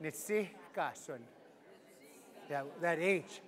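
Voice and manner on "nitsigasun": "Nitsigasun" slow and soft, each syllable drawn out; slowly. Shown as a demonstration. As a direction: stretch "Nitsigasun" out, unhurried. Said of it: "Again, slowly".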